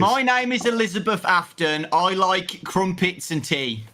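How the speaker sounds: put-on light British accent from a child, unhurried on the second line; kid British accent. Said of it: "maybe you could do, like, a, a kid British voice".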